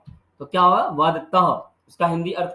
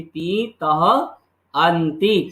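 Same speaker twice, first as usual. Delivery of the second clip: slow recitation; much slower than usual. Shown as a demonstration. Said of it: "क्या याद करना है?".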